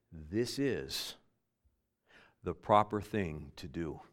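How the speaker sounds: low, soft, measured reassurance; calm him with soft, spaced-out words; quiet calm reply. Retold or imitated. Jesus telling John this is proper, quiet and calm.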